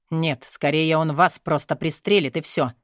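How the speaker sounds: usual speaking voice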